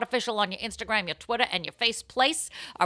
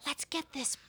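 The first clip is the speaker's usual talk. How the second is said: slow, higher hype call; hyped up; 6 semitones higher, 4 dB louder, slower than usual. Real, not acted. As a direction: kick off the show with energy. Hyped podcast kickoff.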